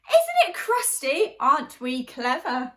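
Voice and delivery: high, loud proud cheer; mighty shout. Acted. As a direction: shout it out, pleased with yourselves. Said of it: "the villagers raised a mighty shout".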